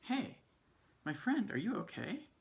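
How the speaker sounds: high call up to a friend. Acted. An ant calls up to Juan Hormiga, high and anxious.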